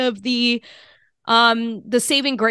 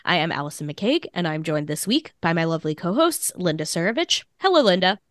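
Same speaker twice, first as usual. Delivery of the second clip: hoarse and blocked up with a cold; raspy, stuffy voice. Real, not acted. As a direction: speak through a heavy head cold. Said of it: "I apologize in advance for the raspy, stuffy sound of my voice".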